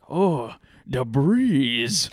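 slow, drawn-out Asian accent imitation. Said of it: "he's strong Asian accent".

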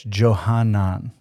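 Johanan said slowly as "Jo-HA-nan", each syllable clear; Hebrew pronunciation. Shown as a demonstration. Teacher showing listeners the Hebrew name, careful Hebrew pronunciation. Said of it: "in the Hebrew, it's".

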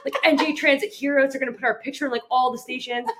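high-pitched bragging, loud at first then easing; hammed-up hero's boast with a laugh; mock boasting. Boasting as mock heroes, then kidding.

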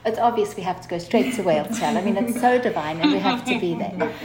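loud, eager and gushing; bursting with enthusiasm; excited. Retold or imitated. Retelling her own excited suggestion.

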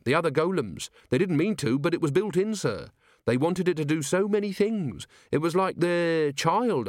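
high, lilting voice pleading the golem's case; earnest subordinate, pained. Acted. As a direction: explain it with earnest, troubled sympathy.

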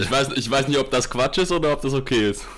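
verzerrt, übersteuert ins Mikro; übersteuertes Mikro. Real, not acted. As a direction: zu nah am Mikro, es clippt. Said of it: "Quatsch ist auf jeden Fall dein Ton, weil du übersteuerst komplett". (übersteuertes, verzerrtes Mikrofon)

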